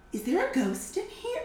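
high, puzzled imitation; mock obliviousness. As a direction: wonder aloud as if nobody is there. Mimicking men ignoring the speaker.

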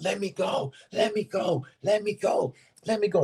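mock crying out. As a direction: act out a trapped girl's repeated cry. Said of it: "she's crying out".

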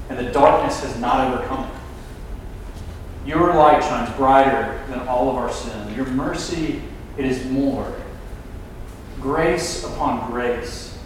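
low-key, subdued public prayer. Real, not acted. Preacher prays to the Father after the sermon, subdued prayer.

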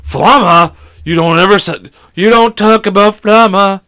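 loud, high mock Hispanic accent, indignant; Hispanic teacher accent. Imagined teacher scolds over flama, hammed-up Hispanic accent. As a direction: put on an outraged Hispanic accent, slowing at the end. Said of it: "the teacher's Hispanic, so she'd be like".

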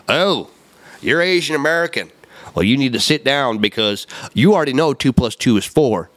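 lightly mimicked condescending teacher; mock lecturing. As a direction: put on a touch of patronizing teacher. Acted speech to a pupil.

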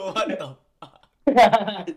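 slow, drawn-out loud outburst; loud exclamation. Real, not acted. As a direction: stretch it out in disbelief. Stream glitch, shouted exclamation.

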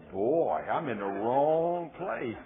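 lightly voiced deacon, words drawn out slow; a slow, stretched comic backing-out; imagined Baptist deacon. Preacher playing a deacon making his excuses, mock wary. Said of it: "a normal Southern Baptist deacon".

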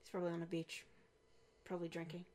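soft, musing guess; hushed, wistful imitation; mock M. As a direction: murmur it like a weary boss. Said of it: "she's probably just like".

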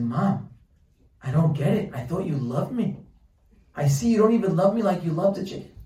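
a mock-wounded son pleading with mom; a lightly voiced boy protesting to his mother; hurt boy.

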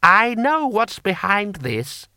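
high, slow, loud snarl. Acted. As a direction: snarl it at them. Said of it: "Lord Hong snarled".

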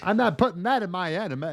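lightly put-on Italian-American mobster accent; a badly held Italian-American accent; slipping Italian-American accent. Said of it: "Oh, my accent's slipping again".

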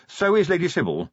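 urgent reminder to the master. A narrator's reading. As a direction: add it urgently, voice lifted. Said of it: "said Willikins urgently".

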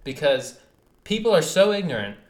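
heated rant, rising loud; pushing harder as the anger builds; fired-up rant about the planet. Real, not acted. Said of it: "this fires me up, dude".

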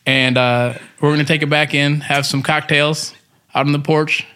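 put-on light country rancher accent; easygoing cowboy storyteller voice; rancher twang. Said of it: "please do your rancher voice".

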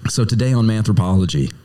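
bad Western accent. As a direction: present the show like a hokey Western cowboy. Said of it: "I definitely put on the accent".

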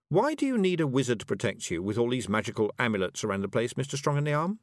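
innocent-sounding question, lifting at the end; mock sweet. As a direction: needle them sweetly. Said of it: "said Tiffany sweetly".

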